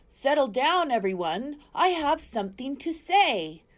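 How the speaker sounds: high, loud owl calling a crowd; hooting owl. A narrator's reading. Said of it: "Swooper the owl hooted to the crowd".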